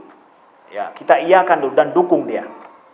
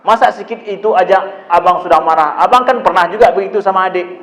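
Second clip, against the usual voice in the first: dismissive parent; 2 semitones higher, 3 dB louder than usual. Retold or imitated. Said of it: "Jangan begitu".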